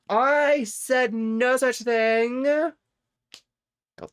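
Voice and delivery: high, slow indignant protest; hammed-up high protest; squeaky mock denial. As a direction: protest innocence in a silly high voice.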